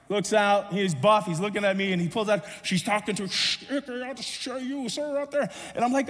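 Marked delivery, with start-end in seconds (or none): 3.3-5.5 imitated lifeguard call. Imitating lifeguard talking through a device.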